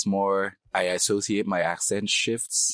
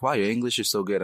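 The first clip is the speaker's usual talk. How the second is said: higher mock-impressed wow; amazed listener, imitated; 4 semitones higher than usual. Quoting Canadians praising a newcomer's English, mock-amazed. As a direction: imitate an astonished compliment. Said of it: "people are like".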